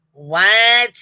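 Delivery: high, loud stunned what; sudden loud disbelief; shocked what. Real, not acted. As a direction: blurt it out in disbelief. Shocked by the chat.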